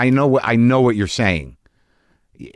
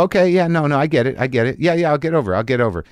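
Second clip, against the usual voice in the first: lightly higher, hammed-up agreeable tone; mock giving in; 6 semitones higher, faster than usual. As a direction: placate her, overly eager to agree. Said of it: "I'm gonna go".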